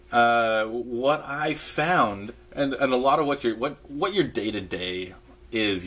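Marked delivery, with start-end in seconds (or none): none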